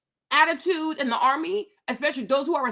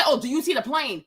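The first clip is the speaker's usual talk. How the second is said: offhand and vague, "the plane" tossed away; careless mock question. Shown as a demonstration. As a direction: toss it off like the lazy controller. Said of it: "Don't just say".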